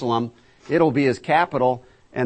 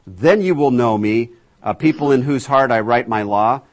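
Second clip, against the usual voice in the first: scripture proclamation; 6 dB louder than usual. Acted. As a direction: proclaim it as God calling his people. Reads scripture aloud.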